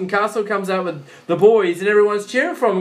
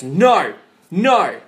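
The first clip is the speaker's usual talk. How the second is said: imitating a naysayer; 4 dB louder than usual. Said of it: "the kind of guy that goes".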